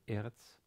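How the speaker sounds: "eretz" stressed on the E; first-syllable stress. Shown as a demonstration. Teacher showing Hebrew learners where stress falls, first-syllable stress. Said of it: "has stress on the first syllable".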